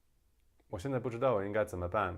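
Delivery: "我现在不知道我应该怎么办" with small tone movements; almost monotone Taiwanese. Shown as a demonstration. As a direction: keep "我现在不知道我应该怎么办" level, barely up and down. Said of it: "the tones are not as".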